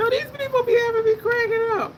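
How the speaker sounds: high and squeaky through real laughter; crying-laughing as she talks; laughing hard. Real, not acted. Laughing to her viewers about funny Instagram videos, voice breaking up.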